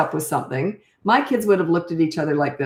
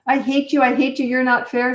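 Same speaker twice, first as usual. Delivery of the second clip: put-on child's tantrum; 6 semitones higher than usual. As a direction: throw it at Mom like a furious kid. Child yelling at parent.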